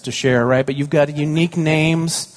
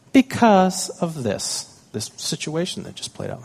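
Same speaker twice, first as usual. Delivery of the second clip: daughter explaining; 5 semitones higher than usual. Retold or imitated.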